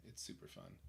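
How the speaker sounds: soft unvoiced aside; hushed whisper. Real, not acted. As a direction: whisper it to a friend. Aside to Ceci.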